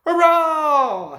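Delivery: very high, loud hurrah; high loud cheer; joyful cheer. A narrator's reading. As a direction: whoop with delight. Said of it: "he thought".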